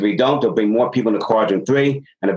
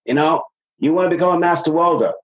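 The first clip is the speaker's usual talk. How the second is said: coaching demo; 4 semitones higher than usual. Shown as a demonstration.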